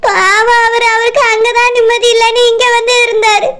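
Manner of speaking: crying, pitying lament; tearful. Acted. Wife pitying her troubled husband, crying. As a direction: grieve for him through tears. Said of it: "Meena, அழாதம்மா".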